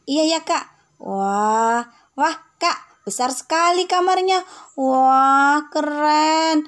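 put-on a kid gasping at a huge bedroom; excited little girl.

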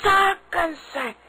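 sulky grumble under her breath, quickening as she goes; muttered aside. Acted. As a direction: complain to yourself once they're gone. Maid grumbling alone after they leave.

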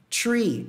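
"tree" with hard T, no TH; three sem TH. Shown as a demonstration. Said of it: "não é". ("tree" com T, sem som de TH)

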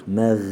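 meg with a thin e vowel; student error; wrong thin meg. Shown as a demonstration. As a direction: show the thin mistake. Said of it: "İnce olmuş olur".

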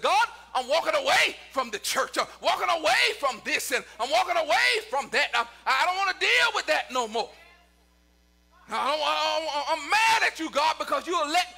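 stammering, worked-up grievance in a preacher's voice; mildly angry complaint. Acted. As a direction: act out a fed-up believer. Acted angry complaint to God.

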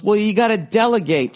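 mock him as a petulant baby; whiny mock retort. The fifty-year-old man whining at the manager, mocking.

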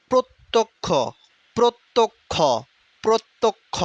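প্রত্যক্ষ broken as "prot... tok... kho"; three clear beats on প্রত্যক্ষ; syllable-by-syllable pronunciation. Shown as a demonstration. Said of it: "উচ্চারণটার দিকে খেয়াল করো". (প্রত্যক্ষ ভেঙে "প্রোৎ... তোক্... খো")

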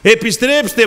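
high, forceful summons; crying out. Acted. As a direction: call it out to the congregation. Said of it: "φωνάζει".

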